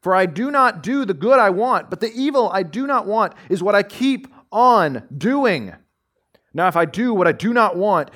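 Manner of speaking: solemn reading from the pulpit; scripture reading. Acted. Reads Romans passage aloud.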